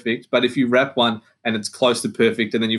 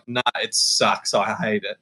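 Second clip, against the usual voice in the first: blunt honesty; 3 semitones lower than usual. Retold or imitated. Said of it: "rather than being like".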